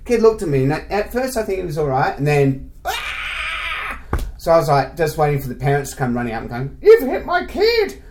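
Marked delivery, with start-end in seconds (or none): 2.8-4.0 high-pitched mock cry of a hurt kid; child's sudden wail. Retold kid starts crying after hit. 6.8-8.0 high, slow accusing shriek; mock outraged parent. Imitates parents running up, accusing.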